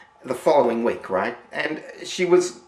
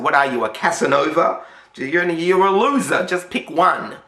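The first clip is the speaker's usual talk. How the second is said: mild mock berating, pitched up and louder; exasperated scolding; 4 semitones higher, 4 dB louder than usual. Landlady berating John in front of the women, mock exasperated. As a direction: push him, half-hearted nagging.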